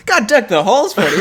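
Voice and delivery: laughing through the words. Real, not acted. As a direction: break into laughter mid-line. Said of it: "Why do I sound like, like a radio host?".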